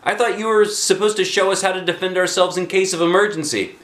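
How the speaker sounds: put-on high, loud kid voice; girl's complaint. A narrator's reading. Alexia objecting to Mister Jack, high voice. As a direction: protest the lesson.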